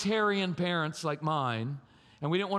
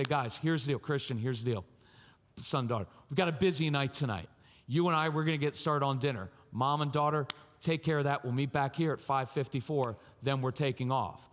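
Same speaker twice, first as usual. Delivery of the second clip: calm, lower-pitched parent giving instructions; calmo e in controllo; 4 semitones lower than usual. Acted. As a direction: lay out the plan evenly, in control. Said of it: "you're in control of yourself".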